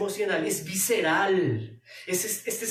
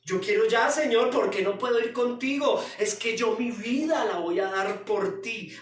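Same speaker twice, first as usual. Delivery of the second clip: a demanding disciple who won't wait; impulsive Peter; 3 semitones higher than usual. Retold or imitated. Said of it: "un Pedro que es, ojo, miedoso".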